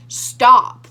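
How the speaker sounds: imitating a cop yelling at the car; aggressive yell. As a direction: snap it out like an angry cop. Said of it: "yelled at us aggressively".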